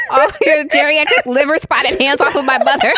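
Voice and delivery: high mock-outraged yell through laughter; yelling movie impression. Co-host finishing the Step Brothers quote about mother, mock yelling. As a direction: join in the hammed-up movie rant. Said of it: "he was yelling at old dudes like".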